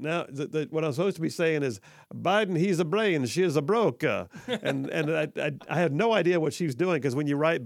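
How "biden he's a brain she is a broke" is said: mock Italian accent read. Shown as a demonstration. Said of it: "supposed to be said with an Italian accent".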